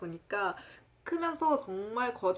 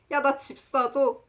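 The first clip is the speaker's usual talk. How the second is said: slow, loud, higher demand; 조르는 친구 흉내; 5 semitones higher, 6 dB louder than usual. Retold or imitated. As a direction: drag out an absurd request like a pushy friend. 친구의 황당한 요구 흉내. (친구가 크게 늘여 조르듯)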